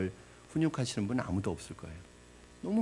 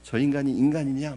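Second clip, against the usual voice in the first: rising, louder outrage at the servant; indignant outburst; 4 semitones higher, 5 dB louder than usual. Retold or imitated. Congregation's imagined outrage at the unforgiving servant, getting louder. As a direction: voice the listener's indignation, building. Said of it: "뭐 이렇게 막 화가 날 거예요".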